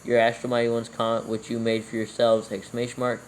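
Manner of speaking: dictating. Real, not acted. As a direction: read it out word by word for copying. Dictates scripture with punctuation.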